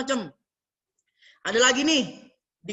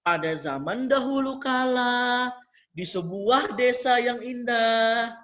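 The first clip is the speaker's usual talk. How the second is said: storybook opening; slower than usual. Shown as a demonstration. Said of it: "hindari kata-kata pembuka".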